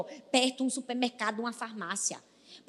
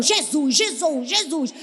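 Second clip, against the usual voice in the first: crying out; 7 dB louder, slower than usual. Acted. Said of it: "Eu clamo".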